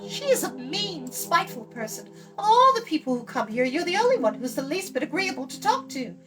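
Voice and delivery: put-on high, bright girlish voice, proud of her ancestry; young girl Eilonwy. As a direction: play the chattering young princess.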